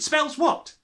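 high, loud demanding roar; bellowing. Acted. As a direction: boom the question at the boy. Trunchbull bellowing at a boy.

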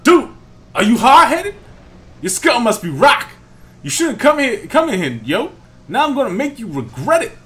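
high, loud street-thug taunt; hammed-up Team Skull grunt; angry grunt. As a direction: yell at the kid like a punk grunt.

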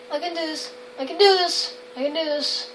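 very soft self-talk under your breath; nervous self-encouragement. Real, not acted. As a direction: quietly psych yourself up. Psyching self up, scared.

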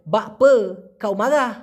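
slow drawled Malay phrase; drawled colloquial Malay. Shown as a demonstration. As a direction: stretch বা পে কাউ মাগা slowly with the local drawl, r as g. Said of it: "ওরা টান দিয়ে বলে".

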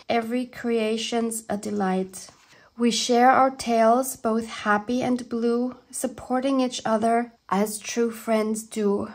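measured, lilting verse reading; poem reading. Real, not acted. Reading a friend's poem to viewers, in heartfelt verse. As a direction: read the verse phrase by phrase, heartfelt.

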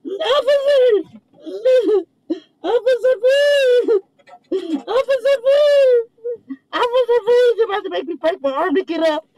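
high, sobbing begging with laughs breaking through; crying plea. Real, not acted. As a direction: beg the officer through real tears, pitched high. Man begging officer from car.

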